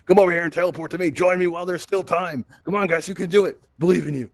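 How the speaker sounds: playful urging call. Pretend. Host beckons audience to teleport across the room, playful urging. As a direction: call them over like a cheering teammate.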